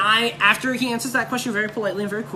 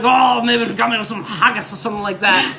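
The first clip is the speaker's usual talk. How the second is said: loud, hammed-up Scottish accent; Braveheart Scottish accent; 5 dB louder than usual. Fan doing a Scottish accent for Grant Morrison, hammed-up Braveheart. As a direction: do your best Braveheart Scot. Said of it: "in, like, my best Braveheart".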